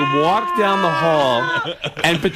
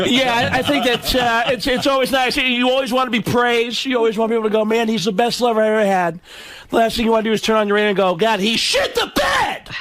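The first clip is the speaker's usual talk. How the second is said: raised, steady comic voice building to scream; Sam Kinison; 6 semitones higher than usual. Acted. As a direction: hold it high, then scream the punchline.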